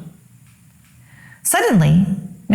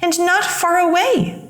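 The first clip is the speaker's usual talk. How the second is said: higher, hushed mother with a strange feeling; mother's voice; 8 semitones higher than usual. A narrator's reading.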